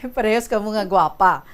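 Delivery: amused, laughing. Real, not acted. Interviewer repeating the guest's joke, amused and laughing. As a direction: talk between bursts of giggles.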